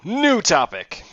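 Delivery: high, loud call for a new topic; bright loud shout to move on; shouted topic change. Real, not acted. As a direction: yell it to cut the subject off. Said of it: "loud topic change".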